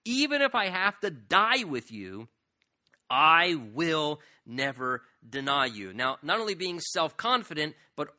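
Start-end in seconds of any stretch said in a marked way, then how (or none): 0.0-5.9 slow, loud, stubborn promise; insistent vow. Retold or imitated. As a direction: dig in and swear it. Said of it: "He insisted".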